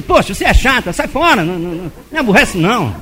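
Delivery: tag-scolding. Acted. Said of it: "xingar a esposa, o cara xinga".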